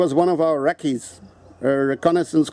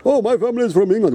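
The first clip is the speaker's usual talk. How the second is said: quick, higher-pitched mocking quote; mocking imitation; 3 semitones higher, much faster than usual. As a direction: mimic the boast in a hurry. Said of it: "People like you".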